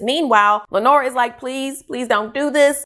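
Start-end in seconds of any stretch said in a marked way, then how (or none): 1.4-2.8 slow, higher-pitched mock begging; retold pleading. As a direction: plead slowly, lightly acted. Lenora begs Ricky to stop.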